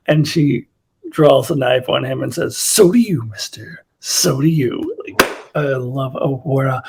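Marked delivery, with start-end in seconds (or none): 2.6-4.9 dropping to a cool, threatening whisper; menacing whisper. Retold or imitated. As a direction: hiss the warning, soft and dangerous. Uhura threatens Sulu with knife.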